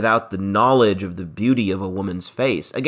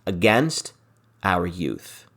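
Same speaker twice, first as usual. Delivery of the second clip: verse reading. Acted. Teacher reading Shakespeare's lines to the class, lightly dramatic. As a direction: read the verse line with a touch of drama.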